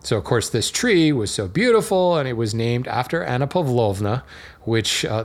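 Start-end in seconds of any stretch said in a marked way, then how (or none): 3.2-4.2 lightly put-on Russian accent; best Russian accent. Shown as a demonstration. Introducing the tree's namesake, in a light Russian accent. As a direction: attempt a Russian accent on the name. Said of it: "that was my best Russian accent".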